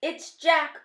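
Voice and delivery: high, loud cry of alarm; bellow. A narrator's reading. Sleeping giant spotting Jack in his nightmare, bellowing. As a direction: bellow it in dread. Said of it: "bellowed the flesh lump eater".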